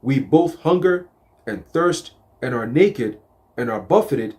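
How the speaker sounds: slow, solemn verse reading; scripture reading. Acted. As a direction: read the verse slowly and deliberately.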